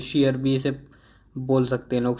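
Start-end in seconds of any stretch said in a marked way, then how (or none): 0.0-0.4 शेयर, with sh in place of ch; mispronunciation. Shown as a demonstration. Teacher showing how people misread cheer, wrong शेयर with sh. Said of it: "वो गलत सलत पढ़ते हैं".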